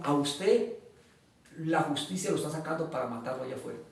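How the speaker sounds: low, hushed retold warning; grave warning. Jailed lawyer warning freed prisoner, gravely quiet. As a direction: drop the voice to warn of danger.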